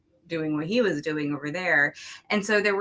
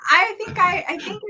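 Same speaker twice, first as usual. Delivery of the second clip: talking through laughter; 14 semitones higher, 5 dB louder than usual. Real, not acted. Wife answering amid shared laughter.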